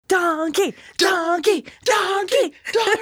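braying "Donkey!" high. Retold or imitated. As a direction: bray it like a donkey. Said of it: "Like a donkey?".

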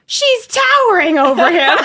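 high, loud, drawn-out laughing shriek; mock scream through laughter; imitated scream. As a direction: scream it in mock amazement, stretching it out. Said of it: "I hear Tila scream".

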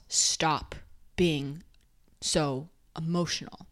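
lightly voiced scolding, holding back a sigh; mild mock-stern father voice; stern rebuke. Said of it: "Very stern".

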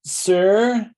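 high, slow put-on lady's voice; lady bystander. Lady asking a stranger to call for help, high mock voice. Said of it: "This lady's like".

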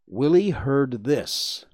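usual speaking voice

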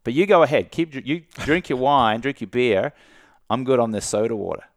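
a light, smug dare; cheeky and confident. Shown as a demonstration. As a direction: playfully wave them off. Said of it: "It's like".

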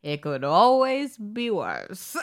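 slow, laughing, lightly voiced old man; a hint of an old storyteller; old Jewish man voice. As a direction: imitate the tape narrator, slowly. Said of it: "old Jewish voice".

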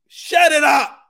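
high, loud comic shout; mock shout. Telling off Honey Boo Boo, loud mock shout. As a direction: yell it out in mock scolding.

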